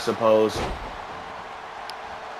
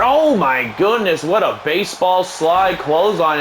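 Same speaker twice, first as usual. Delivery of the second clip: excited call; 4 semitones higher than usual. Acted. Calling a baseball slide.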